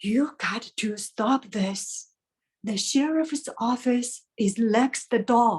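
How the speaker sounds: hushed stage whisper, dropped into. Showing how to voice a mother's line in a speech, the speaker whispers. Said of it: "And when your mother whispered to you".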